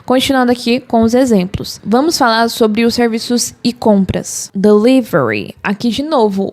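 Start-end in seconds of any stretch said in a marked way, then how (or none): 4.6-5.5 Delivery with a strong English R. Shown as a demonstration. Teacher modelling the English Delivery. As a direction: hit the R in Delivery. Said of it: "o R é mais forte".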